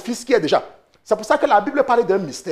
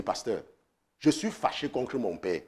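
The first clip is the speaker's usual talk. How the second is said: much softer and lower, hushed; quiet complaining caller; 8 semitones lower, 13 dB quieter than usual. Retold or imitated. Pastor imitating a young woman telling him her anger. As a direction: lay the grievance down softly.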